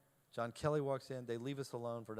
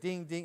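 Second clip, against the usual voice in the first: imitated phone chime; 4 semitones higher, 3 dB louder than usual. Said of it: "She said it was like".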